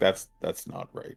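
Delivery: breathy, drowsy, half-awake whispered murmur. Voicing a character replying to another player in a half-awake tone. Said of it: "In sort of a half-awake tone".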